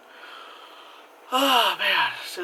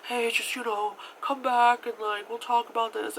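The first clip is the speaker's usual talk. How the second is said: trying to be nice; 6 semitones higher than usual. Retold or imitated. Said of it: "he's trying to be nice".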